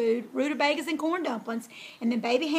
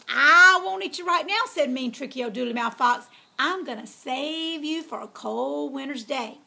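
sly fox. Acted. Fox taunting captive pig.

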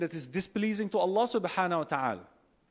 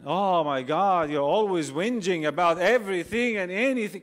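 mock exasperation; 5 dB louder than usual. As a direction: act out a fed-up spouse dismissing a partner. Acts spouse dismissing partner's troubles.

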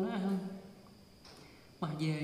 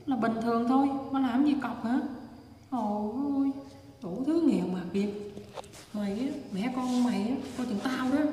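retold angry threat; 3 semitones higher than usual. Harasser threatening a mother and child, retold angrily. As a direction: act out the harasser's raised-voice scolding.

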